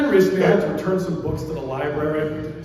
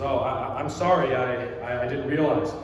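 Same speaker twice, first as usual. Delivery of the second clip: flustered apology; 5 semitones lower, 3 dB quieter than usual. Retold or imitated. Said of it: "She says".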